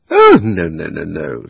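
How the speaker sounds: a touch of mock shock, loud then falling. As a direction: protest as if scandalised. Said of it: "in a shocked voice".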